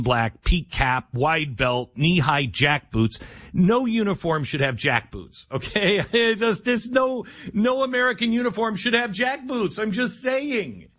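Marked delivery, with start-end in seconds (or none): 3.5-10.9 much higher, indignant, with a laugh breaking in; exasperated outburst. Real, not acted. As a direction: squeak it out in disbelief. Outraged rant about jack boots.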